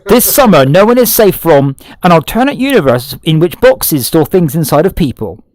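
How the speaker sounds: dramatic doom-laden trailer read; horror trailer voice. Pretend. Repeats the trailer line.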